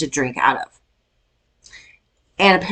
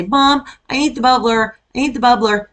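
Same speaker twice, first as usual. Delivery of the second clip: put-on whiny kid voice; 6 semitones higher than usual. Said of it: "you'll hear a little kid say".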